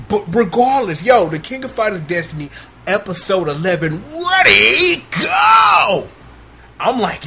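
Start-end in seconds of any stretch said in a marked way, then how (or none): 1.0-6.1 fast hype intro, shouted ready go; second try at the fight call; Gundam announcer voice. Shown as a demonstration. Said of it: "I'm trying".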